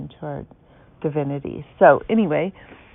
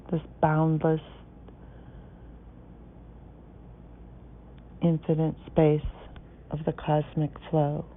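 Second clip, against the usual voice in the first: measured, poetic reading with spacious pauses; meditation recitation. Acted. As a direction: recite it phrase by phrase, letting each image settle. Reads out meditation text to listeners.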